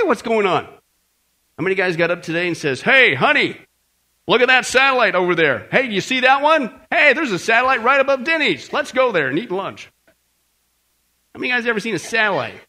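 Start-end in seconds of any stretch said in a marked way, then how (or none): 2.8-9.9 louder, eager husband calling to his wife; mock husband. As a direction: playfully call out to honey about satellites. Mock husband pointing out satellites.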